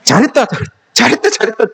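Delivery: warm, genuine "잘했다" repeated with real approval; mean every word of it; sincere praise. Shown as a demonstration. Preacher shows the congregation true praise, warm and sincere. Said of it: "칭찬하시라고요".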